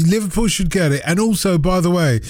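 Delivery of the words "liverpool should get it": lightly put-on Scouse; Cockney having a go at Scouse; bad Scouse accent. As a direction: imitate a Scouser, not very well. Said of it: "as bad as my Scouse accent".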